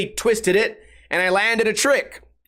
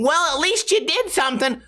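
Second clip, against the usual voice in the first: mock commenter voice; 6 semitones higher than usual. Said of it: "praising it and saying".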